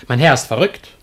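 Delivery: blurted out loud, fed up; exasperated cry to the audience; a servant's loud complaint about his master; exasperated outburst. Acted.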